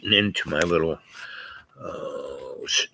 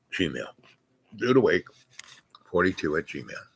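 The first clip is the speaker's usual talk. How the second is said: spelled out very slowly and softer; very slow "Dude Awake", trailing off softer; slow dictation; 3 semitones lower, 6 dB quieter, slower than usual. Shown as a demonstration. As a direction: dictate it slowly so they can write it down. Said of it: "get a hold of me at the Dude Awake".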